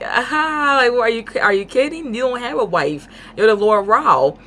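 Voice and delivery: lightly hammed-up "are you kidding" tone; mock incredulity. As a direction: act out laughing off a crazy claim. Retold disbelief at his claim.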